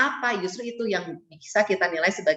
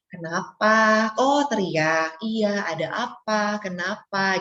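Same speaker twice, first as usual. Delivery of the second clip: gentle connecting parent; much slower than usual. Retold or imitated. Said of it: "yang tadi kata Miss Nancy bilang".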